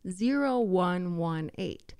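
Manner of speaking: whispered slow, each digit spelled out; slow clear number read; slow careful digits. Shown as a demonstration. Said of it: "Let me say that again".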